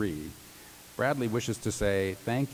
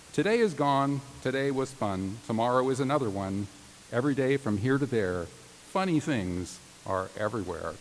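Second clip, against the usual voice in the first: sing-song Seuss reading. Acted. Reading Dr. Seuss to law graduates, sing-song. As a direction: read it like a bedtime picture book. Reads Dr. Seuss poem aloud.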